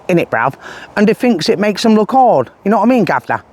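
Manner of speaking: put-on Cockney swagger; fake London accent. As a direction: mimic a wannabe London hard man. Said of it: "try and imitate the London accent".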